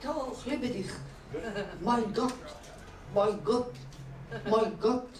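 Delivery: lightly voiced German climax, short repeated exclamations; German lover. Demonstrating a German orgasm, mock German accent. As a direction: play a mock German lover, each cry cut apart. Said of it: "Oh, German, German".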